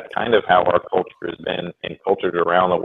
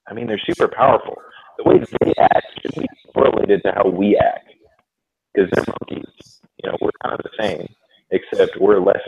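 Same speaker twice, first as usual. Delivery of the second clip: scrambled voice. Real, not acted. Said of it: "I think your mic is cutting out".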